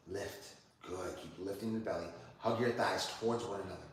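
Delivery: steady, measured cues on the breath; yoga class cueing. Acted. Yoga teacher leading Ashley through plank and down dog, calm and steady. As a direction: lead each breath calmly.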